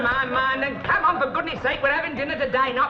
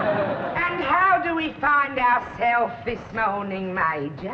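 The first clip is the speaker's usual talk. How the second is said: Grand Duchess voice; 2 semitones higher, slower than usual. Acted. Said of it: "let's hear that Grand Duchess voice".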